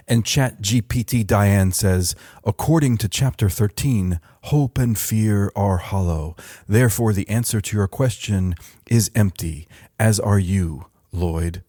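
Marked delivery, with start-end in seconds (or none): 2.4-11.6 lightly voiced AI monk, evenly paced; calm digital monk. AI replying to "Come again?", lightly voiced calm monk. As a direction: deliver a riddle with a hint of monkish calm. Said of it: "calm digital monk voice".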